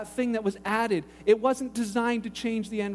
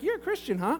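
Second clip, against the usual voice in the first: high-pitched doubtful echo; retold scepticism; 5 semitones higher than usual. Pastor answers the angry caller, sceptical and higher-pitched. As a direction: question the claim with mock innocence.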